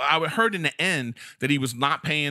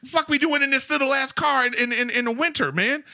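higher, slow big-dude voice squeezed in a small car; impression of a tall guy; 10 semitones higher, slower than usual. Comic mimicking a tall guy complaining about the car, high and slow. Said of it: "He got his voice perfect".

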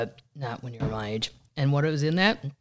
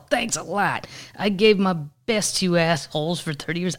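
mock whiny rant; 4 semitones higher, 4 dB louder than usual. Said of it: "then Stuart wrote".

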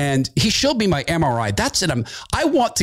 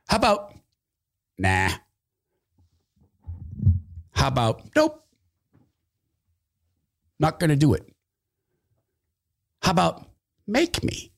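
defiant dare; 3 dB quieter than usual. Real, not acted. Defiant retorts to the Surgeon General.

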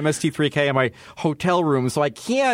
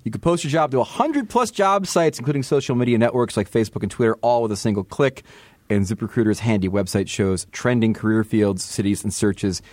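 upbeat host-read ad. Acted. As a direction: pitch it like a sponsor spot. Reads sponsor ad.

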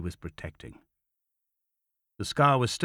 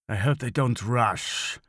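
manic officer; slower than usual. Acted. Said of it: "Rasch smiled, manic eyes widening".

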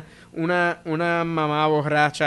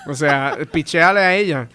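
raised, laughing mock advice; lively heckler callout; 2 semitones higher than usual. Comic teasing Roberto in front of the room, amused. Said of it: "Y yo".

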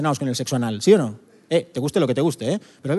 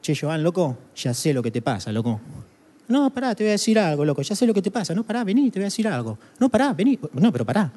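put-on Argentine accent, jumping higher on "No, pará"; Argentine psychologist; 4 semitones higher than usual. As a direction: play a wound-up Argentine shrink in his accent. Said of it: "me dice el psicólogo".

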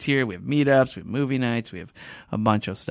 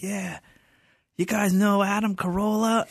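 hyping emcee; 10 semitones higher than usual. Retold or imitated. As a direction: pump up the crowd like an emcee. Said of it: "getting the crowd all riled up".

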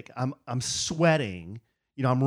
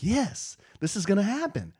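higher-pitched retold hopeful yes; rising optimism; 6 semitones higher than usual. Man telling how his DMV visit improved, mildly hopeful. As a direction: play back a mild burst of hope. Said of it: "positivity meter's rising".

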